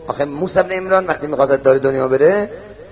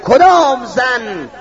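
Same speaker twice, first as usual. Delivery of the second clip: slow drawn-out riddle; 8 semitones higher, much slower than usual. Retold or imitated. The priest poses his riddle.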